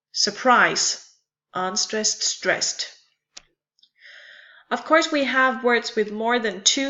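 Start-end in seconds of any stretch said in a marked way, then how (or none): 0.1-2.9 "Surprise" with strong, falling -PRISE, then name the two beats; measured demonstration of "Surprise", second syllable strong; unstressed then stressed. Shown as a demonstration. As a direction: teach "Surprise" as weak-strong. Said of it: "followed by a stressed syllable".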